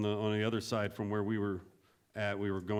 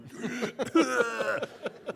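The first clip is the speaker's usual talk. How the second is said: high, sputtering choking noise; imitated splutter into a sandy mask; mimed choking on sand; 13 semitones higher, 5 dB louder than usual. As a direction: act out gagging on a mouthful of sand. Imitates reaction to sand-filled mask.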